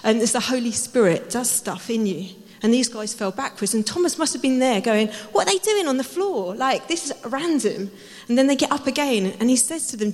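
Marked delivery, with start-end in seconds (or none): 5.3-7.9 mildly incredulous, pitched up at first; baffled bystander. Retold or imitated. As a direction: act out Thomas's bewilderment. Acting out baffled Thomas.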